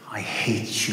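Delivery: playful teasing laugh; joking, laughing. Shown as a demonstration. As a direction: toss it off with a laugh. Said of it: "You don't hate him, but you just say".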